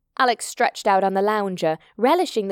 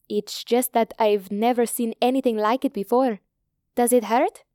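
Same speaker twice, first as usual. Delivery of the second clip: lightly voiced inquiring young woman from India; concerned Indian girl. Hita asking Alex about the lump, lightly voiced concern. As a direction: question her gently as a doctor's daughter would.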